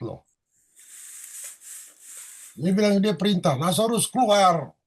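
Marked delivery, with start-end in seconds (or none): 3.6-4.7 booming command. Retold or imitated. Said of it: "Suaranya menggelegar gitu".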